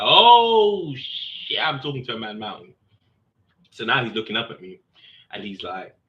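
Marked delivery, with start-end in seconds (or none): 0.0-2.7 mock shock, high burst then a hushed curse; startled yelp. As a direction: imitate the sergeant's sudden fright at his size. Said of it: "he was like".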